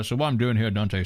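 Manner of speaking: speaking through a mouth full of food. Answering a viewer's chat question, talking with a full mouth. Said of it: "sorry, full mouth".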